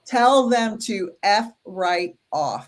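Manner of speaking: put-on slow, lightly British accent. Psychic relaying the message she heard, in a British accent. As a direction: imitate a British accent, drawn out slowly. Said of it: "it was in a British accent".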